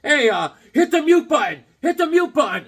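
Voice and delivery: high, loud call to hit mute. Retold or imitated. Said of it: "they're going".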